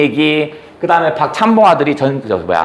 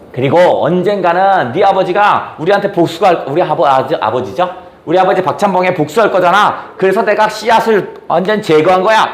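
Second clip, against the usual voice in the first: shameless; 3 semitones higher than usual. Retold or imitated. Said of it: "아주 뻔뻔하게 얘기합니다".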